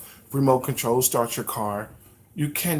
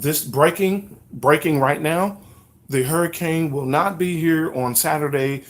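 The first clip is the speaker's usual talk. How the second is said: hammed-up newscaster with constant corrections; lightly voiced mock breaking-news anchor, a touch louder; mock news update; 3 dB louder than usual. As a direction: play a flustered anchor reading breaking updates.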